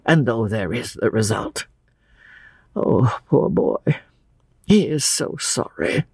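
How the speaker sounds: put-on wistful old man, halting between phrases; sorrowful old Mister Emerson. Old father pities his poor boy, sorrowfully. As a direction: sigh over it, then plead for the son.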